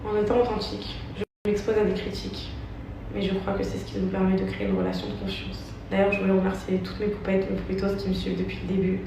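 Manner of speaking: measured, careful statement reading. Acted. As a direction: read it like a prepared apology. Reads her written statement.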